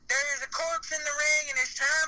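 slow, solemn funeral promo; wrestling promo. Retold or imitated. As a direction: announce it like a ring eulogy. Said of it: "I was cutting a promo".

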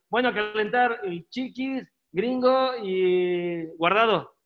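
slow, drawn-out callout. Retold or imitated. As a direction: stretch the names out lazily. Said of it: "Milton decía". (Milton mandando a calentar, despacio)

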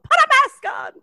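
high-pitched yelling at drivers; shrill mock yell from the car; mock scream. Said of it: "I scream at people".

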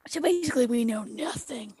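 hushed whisper. Real, not acted. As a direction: drop to a whisper. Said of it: "Why are we whispering?".

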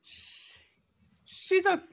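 halting, laughing "she's okay"; mock relieved realization. Remembering decoding the boss's fine, halting and laughing. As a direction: stammer it out, then laugh in relief. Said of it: "took me a few times to be like".

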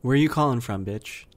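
caller impression. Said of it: "I'm gonna do an impression of it".

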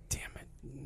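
very soft whispered curse; under-the-breath exasperation. Retold or imitated. Parent reacting to something the daughter did, whispered exasperation. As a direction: whisper it to yourself.

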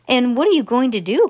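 anxious cry. Acted. Charlie asks Wonka as the lift hovers, mild cry. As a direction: cry out the question with some force. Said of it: "cried Charlie".

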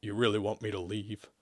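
soft, low, hesitant question; slow, subdued question. Acted. Demon asks if he must leave, subdued. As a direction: ask it slowly and softly. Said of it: "Isaac asked slowly".

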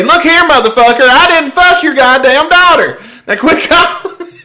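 loud, high radio-DJ cussing with southern twang; Dodson. Retold or imitated. Radio DJ cussing out a prank caller, twangy mock fury. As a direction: boom it out like an angry radio host, laughter creeping in. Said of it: "he would cuss you out in his radio voice".

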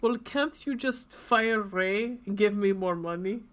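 mock Russian accent for a quote; imitated Russian accent. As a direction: imitate a Russian asking a favour. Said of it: "we knew a lot of Russian people".

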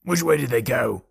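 mild, held-back yell; distant yell. A narrator's reading. Men shout to each other in pursuit, restrained yell. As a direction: imitate men calling far off. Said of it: "they were yelling".

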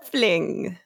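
creature's drawn-out hum, then the word; Skeksis. Retold or imitated. Apologising for the odd noise, imitated Skeksis voice. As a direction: imitate a puppet villain's creepy hum. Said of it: "I made a noise like a Skeksis".

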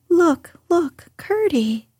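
high, eager call to a friend; excited cry. A narrator's reading. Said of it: "cried Irene".

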